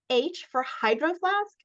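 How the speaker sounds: high, rising teasing question; a touch of giggly disbelief. A narrator's reading. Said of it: "she giggled uncontrollably".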